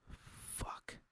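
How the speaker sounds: breathless hissed curse; frustrated hiss stuck in traffic. A narrator's reading. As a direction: spit it out under your breath. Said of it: "I hissed".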